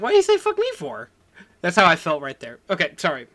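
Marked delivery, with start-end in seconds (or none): 0.0-1.1 very high, squeaky outraged quote; Fifty Cent quote. Retold or imitated. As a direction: squeal the line in mock disbelief. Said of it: "And he was like".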